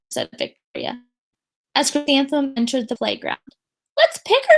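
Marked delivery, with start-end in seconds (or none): 4.0-4.6 mock. Victoria mocks at playground.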